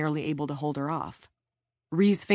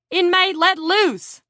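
high, loud, drawn-out yell; shouted command; 14 semitones higher, 8 dB louder, slower than usual. A narrator's reading. Officer ordering an attacker off her victim, shouting. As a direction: order them apart at full voice. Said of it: "Van shouted".

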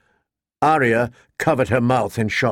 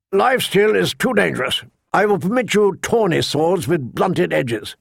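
put-on raised voice of a gruff old master-at-arms; old knight voice; 5 semitones higher than usual. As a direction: command the yard like an old knight.

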